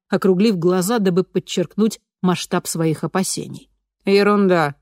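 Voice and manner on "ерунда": dismissive. A narrator's reading. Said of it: "отмахнулась Дорсет".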